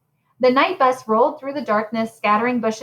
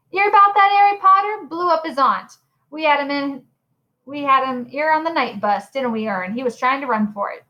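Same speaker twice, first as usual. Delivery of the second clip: a lightly voiced Stan spreading gossip; gossiping conductor; 4 semitones higher than usual. Stan telling passengers about Harry, light chatty gossip.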